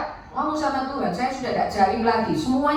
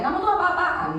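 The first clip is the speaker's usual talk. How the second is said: retold scolding; 8 semitones higher than usual. Husband scolds his wife over unanswered calls, retold scolding. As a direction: imitate an indignant husband telling someone off. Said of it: "suami saya marahi saya".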